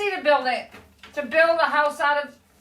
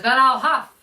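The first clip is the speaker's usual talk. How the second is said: playful wolf threat, building to a long high finish; storybook wolf threat; 4 semitones higher, slower than usual. Acted. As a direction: huff it out, then stretch the final threat. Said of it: "The voice says".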